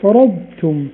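فرضتم with full ض before ت; clear dad then ta. Shown as a demonstration. Tajweed teacher demonstrating, clear separation. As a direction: keep ض whole in فرضتم. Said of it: "فقول فرضتم".

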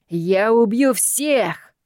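slow, bellowing madman; slow menacing madman roar; loud threat. A narrator's reading. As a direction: roar it like a crazed brute. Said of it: "раздалось громкое сбоку".

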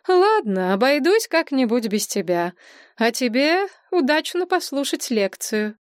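high, sarcastic send-off; ironic. Acted. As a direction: let the irony show. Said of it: "иронию в твоём голосе". (иронично)

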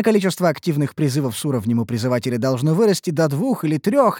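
plain reading voice

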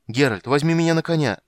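high, loud, urgent appeal; shouted plea. Acted. Bard begs Geralt for a ride, shouting. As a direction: cry out so as not to be left behind.

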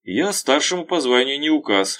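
sullen. A narrator's reading. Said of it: "хмуро сказал Кружков".

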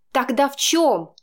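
Chaika, crying out; exclaiming. A narrator's reading. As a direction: cry out the question. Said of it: "вскричала она".

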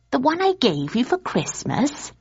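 a hint of a wife catching him out; Polly, suspicious. A narrator's reading. Polly voiced, suspicious question.

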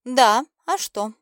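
amused. A narrator's reading. Girl teases Blaiden, slow and amused. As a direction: drawl it out, toying with him. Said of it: "Девочка начала откровенно забавляться".

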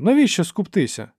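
high-pitched, amiable appeal; friendly pleading. A narrator's reading. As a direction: coax them out of fighting. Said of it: "мовив він дружним м'яким голосом". (дружнє високе вмовляння)

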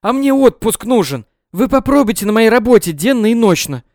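loud, high indignant shout; shouting after him. A narrator's reading. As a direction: yell after the departing doctor. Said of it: "безуспешно кричала ему вслед". (громкий возмущённый крик вслед)

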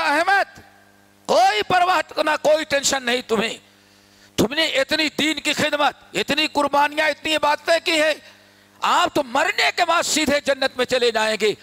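lifted, coaxing reassurance; flattering praise. Retold or imitated. Iblis planning to flatter Ahmad, coaxing praise. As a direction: praise him as if all is assured. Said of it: "وہ تعریف کرے".

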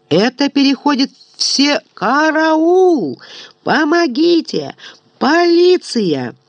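high, frantic cries for help; panicked yelling for help. Acted. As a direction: scream for help in terror. Momus hung upside down yelling. (панический крик о помощи)

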